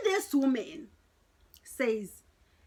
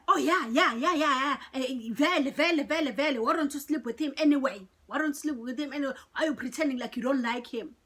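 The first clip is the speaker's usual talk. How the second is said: mildly mocked irritated nagging, words repeated in quick bursts; worked-up; 3 semitones higher, 3 dB louder, faster than usual. Angry coworker goading her friend about a guy, imitated in a worked-up rush. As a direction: imitate an angry woman badgering, rattling it off. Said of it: "Why is she so angry".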